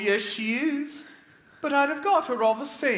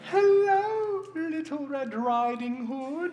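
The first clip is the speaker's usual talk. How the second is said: fake grandma voice; 4 semitones higher than usual. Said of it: "why does your voice sound so strange".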